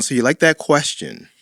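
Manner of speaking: "So you like that question" falling on "question"; down on the end. Shown as a demonstration. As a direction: let "question" drop like a statement. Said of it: "Your tone went down".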